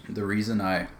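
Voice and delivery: drinking cream soda while talking; while sipping a drink. Real, not acted. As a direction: talk around a sip of soda. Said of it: "sorry, I'm drinking the last of my cream soda".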